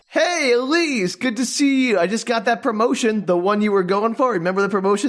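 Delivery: a hint of a boastful ex-boyfriend; smug ex. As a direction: show off the promotion like a smug ex. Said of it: "So Lance is all like".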